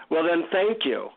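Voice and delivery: mildly sarcastic thanks, retold. Disappointed traveler to the guru, mildly sarcastic. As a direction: give thanks you plainly don't mean. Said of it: "sarcastically I say".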